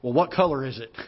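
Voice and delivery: light, matter-of-fact mother's voice; casual question. Retold or imitated. Mother suddenly calm on the phone, asking it lightly. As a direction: ask it offhand, as if nothing happened. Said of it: "the first words out of her mouth is".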